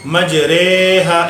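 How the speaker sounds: मजरेहा sung slowly with the ra bent toward re; imala pronunciation. Shown as a demonstration. Teacher reciting मजरेहा as it is read in Quran. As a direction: draw out मजरेहा, vowel between i and a. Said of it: "इसके हिज्जे इस तरह होंगे".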